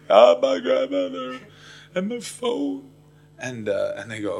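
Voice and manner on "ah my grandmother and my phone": high, slow comic wail; hammed-up crying. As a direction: bawl messily like a grown man. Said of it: "tears that gross when men cry".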